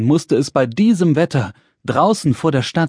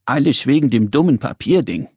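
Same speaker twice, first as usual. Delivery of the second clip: mildly disgruntled little man; a touch of sulky grumbling; gruff, grumpy. Acted. Little man resents the paper kite, mildly grumpy. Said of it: "dachte der kleine rosa Mann unwirsch".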